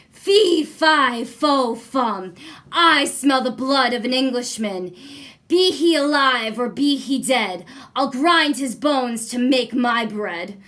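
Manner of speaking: booming giant. Acted. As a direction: roar the giant's rhyme. Giant's famous chant.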